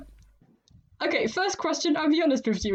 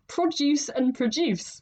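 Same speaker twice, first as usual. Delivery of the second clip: "produce" first with stress on PRO, then proDUCE, slowly; shifting stress; 3 semitones higher, slower than usual. Shown as a demonstration. Teacher showing how stress changes "produce", slow and deliberate. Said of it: "depending on where you put the stress".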